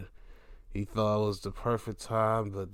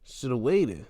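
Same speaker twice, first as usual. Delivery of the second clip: higher mock advice; 6 semitones higher than usual. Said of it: "and like".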